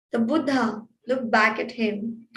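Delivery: ordinary delivery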